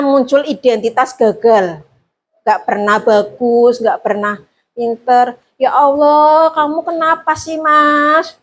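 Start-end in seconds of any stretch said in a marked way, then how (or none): 5.5-8.3 soft guilt-trip. Shown as a demonstration. Teacher gently reproaching a pupil who keeps failing, soft and sighing. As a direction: lay the guilt on softly without getting angry. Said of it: "ngomongnya halus, kayak nggak marah-marah".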